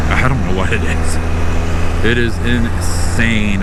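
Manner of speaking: talking through hiccups; hiccupping between words. Real, not acted. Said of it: "here are the hiccups".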